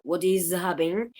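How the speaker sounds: "what is happening" with "is" kept whole and voiced as z; full uncontracted form. Shown as a demonstration. Teacher repeating the example before contraction, "what is happening" uncontracted. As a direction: stress the separate IS in "what is happening". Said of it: "yo paso de decir".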